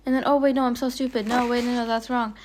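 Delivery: loud, startled self-correction; sudden realization. Real, not acted. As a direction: catch your own mistake mid-sentence. Sudden realisation of own mistake.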